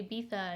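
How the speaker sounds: Ibiza with th for the z, "ee-BEE-tha"; lisped Ibiza. Shown as a demonstration. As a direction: say Ibiza as if lisping, with a th. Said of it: "I start getting a lisp again".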